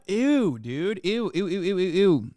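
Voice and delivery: repeated grossed-out ews; cringing ew after ew; disgusted. Real, not acted. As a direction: recoil in disgust. Reacting to creepy compliment.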